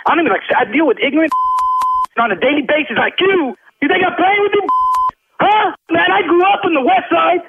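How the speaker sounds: heated, indignant street-tough comeback; angry tough talk. Real, not acted. Loan officer snapping at a rude prank caller, angry. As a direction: put the caller in his place, fed up. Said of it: "I was ready to be a real Mexican from the hood".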